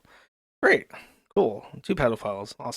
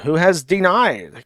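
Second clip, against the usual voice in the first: "denied" drawn out slowly with heavy emphasis; stress on denied; 4 semitones higher, 4 dB louder, slower than usual. Shown as a demonstration. Commentator announcing the state's ruling, slow emphatic "denied". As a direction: hit "denied" as if in bold capitals, stretched out. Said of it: "all capital, bold text".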